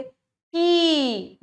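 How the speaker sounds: drawn out. Shown as a demonstration. Teacher drawing out दीर्घ to show a long vowel. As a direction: say कि दीर्घ है slowly, stretching it. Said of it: "कैसे कि जल्दी बोल गए".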